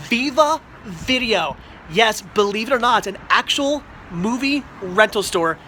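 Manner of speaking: excited reveal. Real, not acted. Arriving at a dream store.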